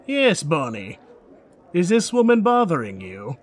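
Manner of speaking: lightly voiced older warrior; a hint of an armored protector checking in; older armored man. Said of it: "older blonde man in steel armor".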